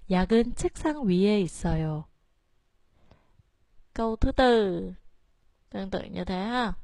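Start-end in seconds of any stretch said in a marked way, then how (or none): 0.1-2.0 약, 위 and 있 start low, 책 goes up; low starts, 책 high. Shown as a demonstration. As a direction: lift 책, drop 약, 위, 있. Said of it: "cho nên chúng ta đọc lên".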